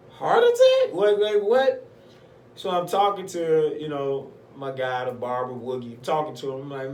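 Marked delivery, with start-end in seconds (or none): 0.1-1.8 high, loud alarmed disbelief; acted panic. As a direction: blurt it out in a high-pitched panic. Acting panic at chest pains.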